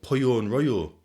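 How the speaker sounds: "pollo and rollo" in Spanish sounds; Spanish words. Shown as a demonstration. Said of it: "in Spanish".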